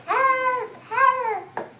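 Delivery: high, drawn-out cry of "help"; mock cry for help. Putana gripped in pain as Krishna drinks, high mock cry for help. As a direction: call out for help as if in pain, without full volume. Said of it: "She started shouting".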